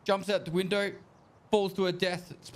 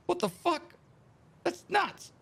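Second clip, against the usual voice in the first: high-pitched mock amazement; acted astonishment; 14 semitones higher than usual. Woman watching a man fly around the building, astonished. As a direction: play her stunned, pitched right up.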